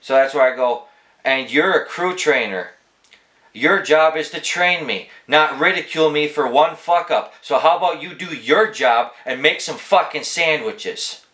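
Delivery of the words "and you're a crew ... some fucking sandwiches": mildly heated, emphatic retort, slightly raised pitch; retold yell, kept below shouting; retold telling-off. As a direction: retell chewing out a co-worker, punching key words. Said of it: "I yelled at him".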